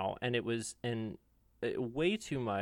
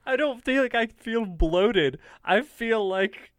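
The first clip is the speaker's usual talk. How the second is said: emphatic; 9 semitones higher, 7 dB louder, slower than usual. Real, not acted. Emphatic denial, laughing.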